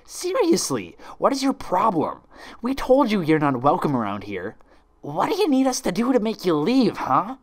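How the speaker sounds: high, loud, fed-up scolding; exasperated yelling. Acted. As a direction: drive her out with exasperation. Rainbow Dash berates Twilight.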